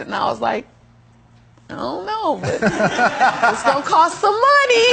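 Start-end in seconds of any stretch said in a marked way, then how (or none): 1.7-4.9 giggling through the words, slowing down; laughing answer. Retold or imitated. Answering the curious bank tellers, laughing. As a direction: laugh it out, bashful and giddy.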